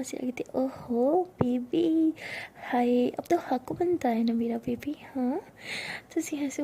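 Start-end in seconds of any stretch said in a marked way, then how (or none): 0.5-5.4 slow, breathy teasing whisper, drawn out; seductive whisper. Acted. Sia teasing Tara up close, seductive whisper. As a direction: purr it to her like a temptress.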